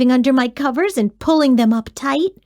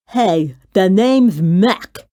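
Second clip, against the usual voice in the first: monster voice; 3 semitones lower, 3 dB louder, slower than usual. A narrator's reading. New monster introduces himself.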